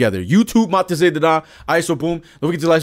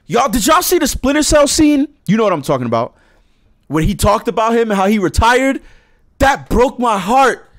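excited; 3 semitones higher, 4 dB louder than usual. Real, not acted. Excited about trailer scene.

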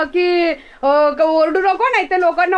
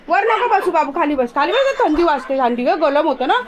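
coaxing dog; 4 semitones lower than usual. Real, not acted. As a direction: gently coax the dog down off the bed.

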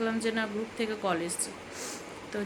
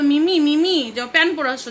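put-on prompting the child; 4 semitones higher, 10 dB louder than usual. Mother prompts child what to say.

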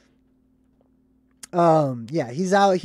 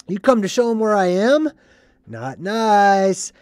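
a touch of action-hero voice, raised and louder; Rowdy Roddy Piper; 4 semitones higher, 5 dB louder than usual. Retold or imitated. Hero confronting the drone, lightly imitated taunt. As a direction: lightly imitate a taunting movie tough guy. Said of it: "his Rowdy Roddy Piper voice kicks in".

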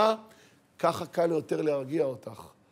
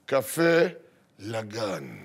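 unfazed husband; 8 semitones lower, much slower than usual. Retold or imitated. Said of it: "איך הטון הזה?".

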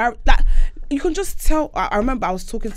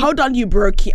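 sassy put-down; 2 semitones higher, 6 dB louder than usual. Retold or imitated. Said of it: "she was like".

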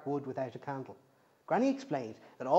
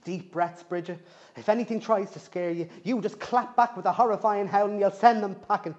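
pep talk; 4 semitones higher, 5 dB louder than usual. Acted. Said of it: "She gave herself a pep talk".

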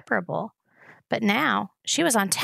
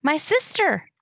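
breathless cry; 8 semitones higher, slower than usual. A narrator's reading. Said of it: "coughed Gregor".

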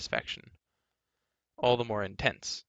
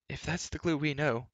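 wry bard; 6 semitones higher than usual. A narrator's reading. Bard comments on changed giant.

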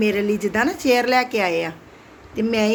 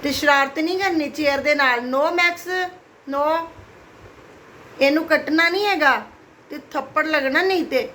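higher, mock-stern scolding of a pet; 5 semitones higher than usual. Real, not acted. Owner scolding her dog Max for biting the chair, higher pitch. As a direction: tell the dog off, half stern.

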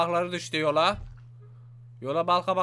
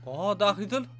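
ordinary talk, nothing marked

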